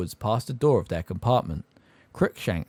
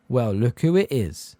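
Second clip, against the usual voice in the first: lazy drawl; 2 semitones higher than usual. Acted. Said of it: "in his usual lazy drawl".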